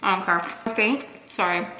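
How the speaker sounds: talking with food in mouth; mouth full. Real, not acted. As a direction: speak around a mouthful. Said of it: "I'm not trying to talk with food in my mouth".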